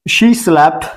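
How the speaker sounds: slow, words held apart; slow teacher voice; slow model answer. Shown as a demonstration. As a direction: dictate it for the class. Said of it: "teacher models English answer".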